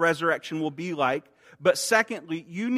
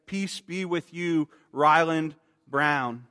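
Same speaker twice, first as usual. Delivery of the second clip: tender; slower than usual. Acted. Jesus speaking to him personally.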